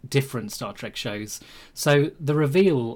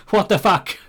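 surprised; 6 semitones higher, 7 dB louder than usual. Real, not acted. Changelings reveal reaction.

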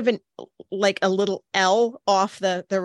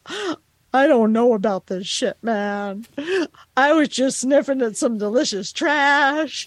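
nervous puppy voice; 4 semitones higher, 3 dB louder than usual. Retold or imitated. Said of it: "so he was a little like".

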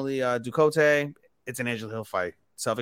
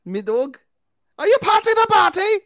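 high, loud hammed-up Liverpool accent; over-the-top Liverpool accent; mock Scouse accent; 8 dB louder than usual. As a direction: play a silly Scouser. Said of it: "In British accents".

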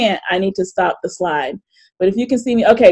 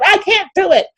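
high, strained wail, slowing down; retold breakdown; 10 semitones higher, 4 dB louder than usual. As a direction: relive the moment you broke down. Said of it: "And I just started crying".

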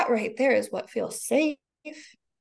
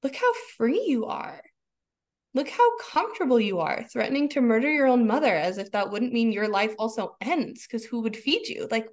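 amazed wonder; 2 semitones higher than usual. Retold or imitated. Mother marveling aloud at her furious child, amazed. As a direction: savor the wonder of it.

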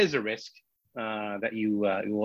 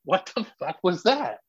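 retold bewilderment; 5 semitones higher than usual. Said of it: "we're all sort of stumped".

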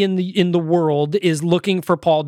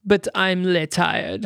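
slow, drawn-out French cartoon accent; slower than usual. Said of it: "the way the French are taking it".

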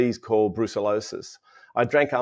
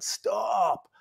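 higher mock call of stop; retold shout from afar; 10 semitones higher, 4 dB quieter than usual. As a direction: yell it from down the hall. Man running down hallway calling.

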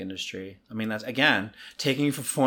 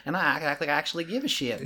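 higher, sugary Southern sweetness; Southern charm; 4 semitones higher, faster than usual. Shown as a demonstration. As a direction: sweet-talk with a hidden insult. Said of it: "use our Southern charm".

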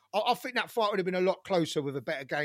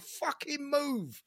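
higher-pitched mock yell at a boxer on TV; retold screaming at the TV; 4 semitones higher than usual. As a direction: urge him to move, reliving the shouting. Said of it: "I was screaming at the T V".

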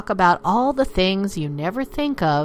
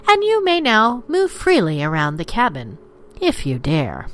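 lightly played cabin announcement; like a polite in-flight announcement; flight attendant; 3 semitones higher than usual. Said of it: "Ladies and gentlemen, the captain".

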